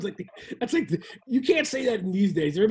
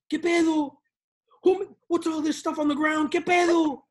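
mock what-the reaction; 5 semitones higher, 3 dB louder than usual. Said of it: "What the".

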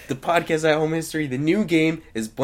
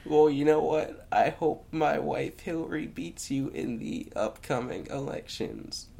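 Bill Clinton voice; 5 dB quieter, slower than usual. Acted. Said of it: "I can do Bill Clinton".

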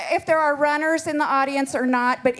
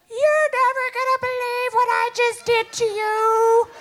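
much higher, laughing gleeful sister; excited phone call; 10 semitones higher than usual. Retold or imitated. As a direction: squeal it down the phone with glee.

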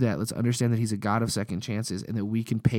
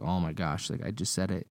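embarrassed aside; 4 semitones lower, 6 dB quieter than usual. Retold or imitated. Embarrassed at his own cliché.

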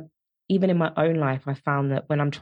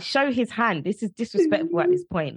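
exasperated; 8 semitones higher than usual. Retold or imitated. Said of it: "I'm just like".

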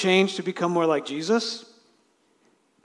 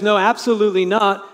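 louder and higher, dragging out how can we; emphatic denial; 6 semitones higher, 10 dB louder than usual. Acted. Paul answering whether believers should keep sinning, emphatic and slow. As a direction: hammer home the refusal.

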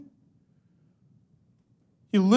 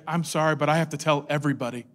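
quiet apology; 7 semitones lower, 7 dB quieter, faster than usual. Pretend. Apologizing to Jesus.

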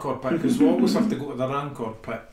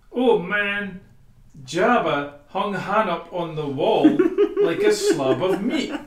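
laughing; 4 semitones higher, 5 dB louder, slower than usual. Retold or imitated. Retold character line, laughing.

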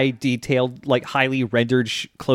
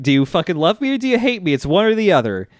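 fast, higher mock outburst; gruff, shouty voice; 5 semitones higher, faster than usual. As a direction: rattle off a mildly shouty angry ultimatum, imitating her. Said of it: "like, a really gruff, shouty voice".

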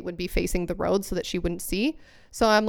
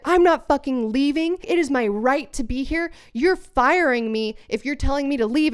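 mock indignant, pitched higher; retold outrage, raised pitch; acted indignant refusal; 5 semitones higher than usual. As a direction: play a man defiantly refusing to budge. Retold man refusing to leave.

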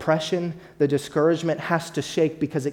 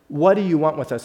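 demon's cry; 6 dB louder than usual. Retold or imitated. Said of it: "this is the demon talking".

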